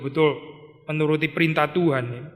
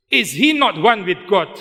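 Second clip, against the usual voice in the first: slow, louder rhetorical question; quoting Spurgeon slowly; 3 semitones higher, 4 dB louder, slower than usual. Retold or imitated. Preacher quotes Spurgeon to the congregation, slow and forceful. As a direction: ask it slowly as a solemn challenge. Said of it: "katanya Spurgeon".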